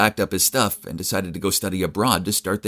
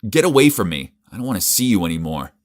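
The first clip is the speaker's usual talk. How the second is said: disgusted rejection; 5 dB louder than usual. Acted. Pushing Elliot away in disgust, a loud angry rejection. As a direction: shove her off with the words.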